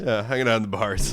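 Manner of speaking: smoky bar-singer husky; sultry bar voice. Real, not acted. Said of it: "Feeling a little under the weather".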